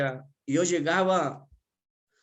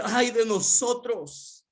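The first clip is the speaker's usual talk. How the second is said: mock lament; 7 semitones higher, slower than usual. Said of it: "me hubiese puesto a llorar y decir".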